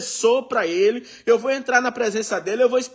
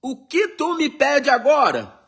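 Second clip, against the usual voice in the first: king asking; 5 semitones higher than usual. Acted. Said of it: "Ele fala assim".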